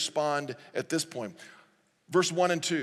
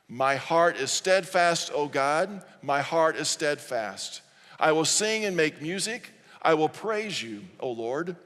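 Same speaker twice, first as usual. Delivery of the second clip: deliberate, emphatic reading aloud in phrases; congregational scripture reading; 3 dB louder than usual. Acted. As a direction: lead the room in declaring the verse.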